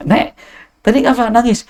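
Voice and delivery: lightly voiced kindly questioner; high playful question. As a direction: ask her kindly, lilting up. Voicing Prophet asking grandma.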